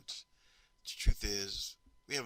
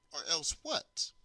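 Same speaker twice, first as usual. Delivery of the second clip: defiant challenge; 6 semitones higher, 4 dB louder, slower than usual. Retold or imitated. Defiant boy answers the teacher.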